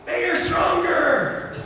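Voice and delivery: high, slow, shouted taunt; shouting taunt. Acted. Pastor shouting fear's taunt at the pulling kids. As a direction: bellow it across the room. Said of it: "real loud".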